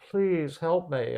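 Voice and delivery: high, drawn-out retold plea; sad, charming plea. Wounded man begs her to open the door, mock-sad pleading. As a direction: gently imitate a pitiful appeal. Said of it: "he's so charming and so sad".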